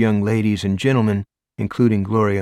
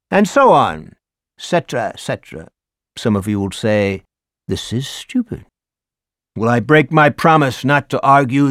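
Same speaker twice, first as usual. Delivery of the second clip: theatrical teacher; 5 dB louder than usual. Acted. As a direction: perform the lecture like a showman teacher. Teacher Ricker lecturing class.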